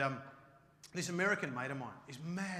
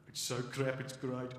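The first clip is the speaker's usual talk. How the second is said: mock English accent; 4 semitones lower, slower than usual. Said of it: "the English, be like".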